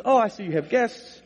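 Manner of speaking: polite nurse excusing herself; courteous, mildly put-on nurse voice. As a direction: politely back out, imitating a nurse. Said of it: "very polite, she goes".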